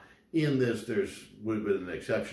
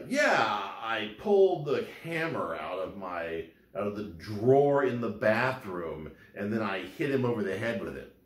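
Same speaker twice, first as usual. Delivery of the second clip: deadpan sarcasm, not meant literally; sarcastic. Retold or imitated. Suspect sarcastically describing hitting him, understated mock confession. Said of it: "the person's being sarcastic".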